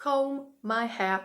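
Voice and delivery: "Comb" said slowly as kohm, the final b not sounded; silent b in comb. Shown as a demonstration. Teacher shows students "Comb" with the b left silent. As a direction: stretch out "Comb" with no b at the end. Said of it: "Остання літера B не вимовляється".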